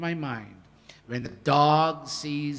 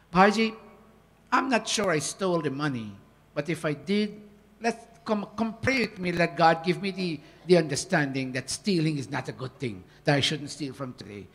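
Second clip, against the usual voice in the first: gentle disarming reply. Retold or imitated. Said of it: "make them smile".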